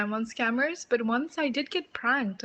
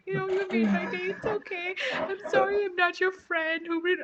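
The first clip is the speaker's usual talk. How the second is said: higher-pitched kind caller, lightly voiced; 9 semitones higher than usual. Caller forgiving her.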